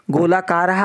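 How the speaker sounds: गोलाकारः ending in a clear breathy ha, golakarah; visarga sounded as ha. Shown as a demonstration. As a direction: pronounce the visarga of गोलाकारः as an echoing ha after the vowel. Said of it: "हा कहाँ से बोल रही हूँ".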